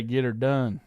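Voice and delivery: light Southern US twang; a touch of American South; Southern accent. Shown as a demonstration. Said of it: "in the South, we say".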